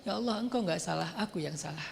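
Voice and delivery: quiet repentant prayer; humble confession. Acted. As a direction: murmur it in full surrender. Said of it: "Harusnya ngomongnya".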